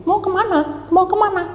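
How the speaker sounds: high, fretful questioning; a worried wife asking twice; anxious wife. Acted. Wife asking Noah where he is running, high and anxious.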